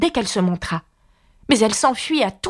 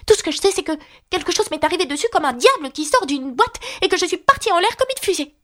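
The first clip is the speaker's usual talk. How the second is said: small, high, creaky lizard voice; petite voix faible, grinçante; 9 semitones higher than usual. A narrator's reading. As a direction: squeak it feebly, like a dazed little creature. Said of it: "une petite voix faible et grinçante". (petite voix aiguë et grinçante)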